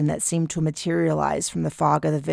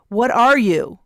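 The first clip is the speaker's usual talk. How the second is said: alarmed; 6 semitones higher, 6 dB louder than usual. A narrator's reading. Man confronts unknown presence.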